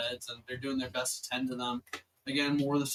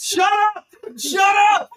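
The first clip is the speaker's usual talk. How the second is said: loud, high yell of shut up; loud laughing shut up; shouting; 16 dB louder than usual. Real, not acted. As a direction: yell it to cut them off. GM yells at player.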